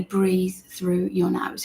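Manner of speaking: drawn-out soft quote; slow. Shown as a demonstration. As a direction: stretch each word out calmly. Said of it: "why do you always say".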